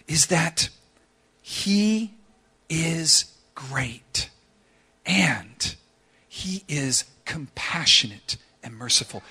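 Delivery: soft, measured pastoral appeal; gentle preaching. Real, not acted. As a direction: speak tenderly to those who suffer, with weighty pauses. Gentle appeal to suffering listeners.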